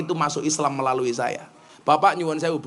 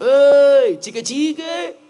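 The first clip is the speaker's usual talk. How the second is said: loud, high, foreign-sounding call; man calling out; 8 semitones higher, 7 dB louder, much slower than usual. Retold or imitated. A hotel passer-by calls out to the preacher, high and loud. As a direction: hail the stranger with a high shout.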